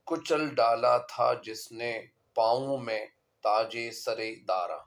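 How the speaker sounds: unhurried poetry reading; verse recitation. Acted. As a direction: recite it phrase by phrase, with pauses. Reads the couplet aloud.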